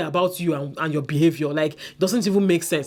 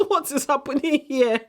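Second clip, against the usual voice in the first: incredulous; 7 semitones higher than usual. Real, not acted. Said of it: "repeated with higher pitch".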